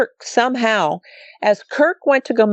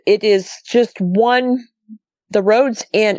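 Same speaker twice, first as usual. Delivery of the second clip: usual speaking voice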